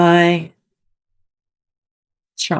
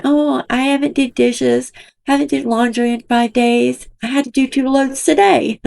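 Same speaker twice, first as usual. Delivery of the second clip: mocking imitation; 6 semitones higher than usual. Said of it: "sitting on live on her butt all day".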